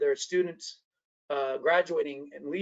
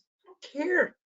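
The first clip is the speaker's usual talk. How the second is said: raised pitch, exasperated mock retort to his mother; embarrassed son calling out his mother at a party, higher and exasperated; retort to mom; 4 semitones higher than usual. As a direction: play it back as a higher, fed-up scolding of mom. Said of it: "I said".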